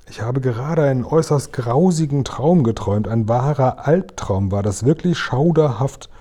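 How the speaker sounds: a hint of an upset queen; queen's voice. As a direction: tell the bad dream with royal dismay. Queen recounts her nightmare.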